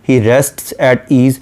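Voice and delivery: very slow, measured poetic reading; a lightly recited line of poetry; slow poem recitation. Shown as a demonstration. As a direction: draw out each word of the verse.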